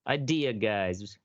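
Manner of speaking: slow drawn-out segment intro; announcer read. Acted. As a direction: announce the next topic slowly.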